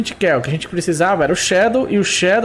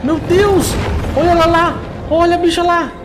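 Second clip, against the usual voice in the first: shrill-free breathless panic, much higher; panicked excitement; 9 semitones higher than usual. Real, not acted. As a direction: freak out at the orca. Orca appears, gamer panics.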